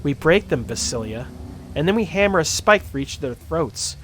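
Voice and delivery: cold Russian gang threat; Russian accent. Acted. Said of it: "keeping this voice".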